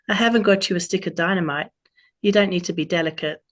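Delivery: a playful, self-mocking Australian twang; terrible Australian accent. Autumn greets Robin on her birthday, mild Australian accent. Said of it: "terrible Australian accent I'm about to do".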